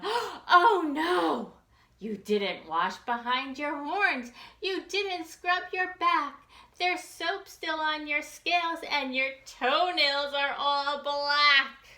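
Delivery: high, loud alarmed mother; mama's voice. Acted. Mama finding her son still dirty, high and loud. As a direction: exclaim like a shocked mom. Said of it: "said Mama".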